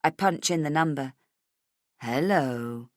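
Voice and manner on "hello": low, taunting sing-song; low sing-song greeting. Acted. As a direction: lilt it mockingly in a low voice. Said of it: "almost in sing-song voice".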